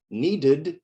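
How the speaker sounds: "Needed" in two syllables, ending in id; sounded E. Shown as a demonstration. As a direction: say "Needed" as need-id. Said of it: "E is not silent".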